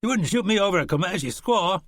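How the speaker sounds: a hint of an affronted gunman; incredulous horseman. Horseman challenging Shannon, incredulous.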